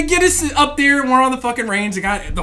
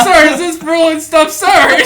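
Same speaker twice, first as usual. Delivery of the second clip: raised, insistent recruit call; recruit addressing instructor; 4 semitones higher, 4 dB louder than usual. Retold or imitated. Recruit asking instructor if this is real, in high sounded-off voice. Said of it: "I was like".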